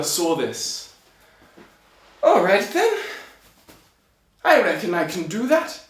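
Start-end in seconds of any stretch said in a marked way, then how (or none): 2.2-5.8 high-pitched, put-on tailor voice; tailor's voice. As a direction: play the little tailor, pitched up and eager to answer the challenge. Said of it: "I apologize for the accents".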